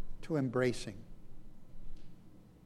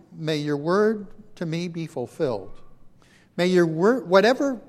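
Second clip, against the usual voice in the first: proclaimed; 8 dB louder than usual. Acted. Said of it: "Mary answered".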